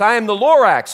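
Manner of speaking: a loud, coughing declaration; coughing Lorax. Acted. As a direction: announce yourself through a cough. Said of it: "he coughed and he whiffed".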